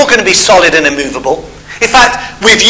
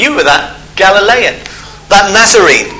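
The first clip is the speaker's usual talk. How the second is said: lightly mocking, pointed retelling; a touch of contempt on each name. Servant girl accuses Peter of following Jesus, mildly mocking. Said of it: "what she said mockingly".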